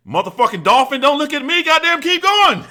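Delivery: high, loud barked drill sergeant yell. Retold or imitated. Drill sergeant yelling at recruit to keep lifting, high loud bark. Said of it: "He said".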